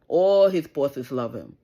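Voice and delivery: loud and slow, every word leaned on; emphatic insistence. Real, not acted. Mother defending her son, loud and slow. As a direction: drive it home word by word.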